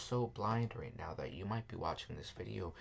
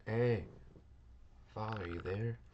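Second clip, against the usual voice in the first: louder call through a closed door; 2 semitones higher, 4 dB louder, slower than usual. Acted. Son knocking at his father's door, calling out loudly. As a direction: call out to get dad to answer.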